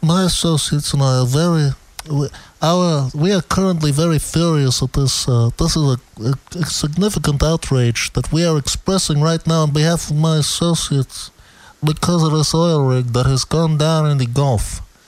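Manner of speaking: ordinary talk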